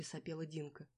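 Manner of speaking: plain reading voice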